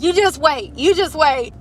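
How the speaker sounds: high, loud threatening warning; hammed-up angry threat; mock threat. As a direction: threaten him like a cartoon villain. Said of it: "I was like".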